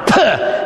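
short, high "puh" spitting noise; imitated spit. Guard spitting on the prisoner, imitated spit.

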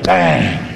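low, drawn-out bang noise; imitated bang. Storyteller imitating the jolt that rocked him, imitated bang.

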